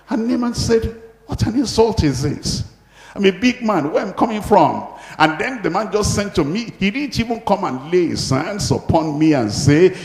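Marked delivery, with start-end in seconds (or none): 1.3-4.8 higher-pitched mock indignation; a touch of offended pride; retold indignation. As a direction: play an affronted big man, mildly. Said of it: "he was fuming. He was angry".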